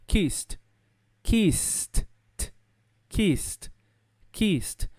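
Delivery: KISSED as one syllable ending in T. Shown as a demonstration. Teacher modelling KISSED, one syllable with a T sound. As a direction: finish KISSED on a crisp voiceless T. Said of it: "ele vai ter som de T".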